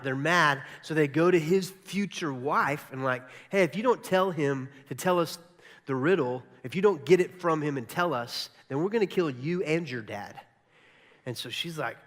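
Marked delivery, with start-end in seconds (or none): 3.5-10.4 loud, mildly menacing retold threat; mock threat. Philistines to the future wife, mock threatening. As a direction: lean on them like a heavy, half in earnest.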